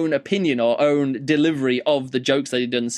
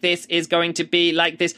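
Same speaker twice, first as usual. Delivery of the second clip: robot voice; 3 semitones higher than usual. Shown as a demonstration. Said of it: "read it in the voice of a computer".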